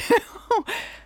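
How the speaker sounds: a bright, very high laugh. Real, not acted. Reacting to the audience's wrong guess with a high laugh.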